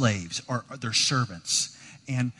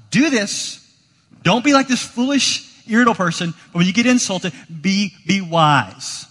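high, loud insistent command; commanding Proverbs; 5 semitones higher, 7 dB louder than usual. Retold or imitated. Preacher voicing Proverbs to the congregation, high and commanding. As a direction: preach it as an order. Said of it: "the Proverbs just tell us".

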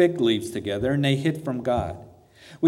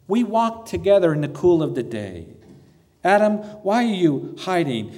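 heartbroken father; 3 semitones higher than usual. Acted. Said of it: "voice of a heartbroken father".

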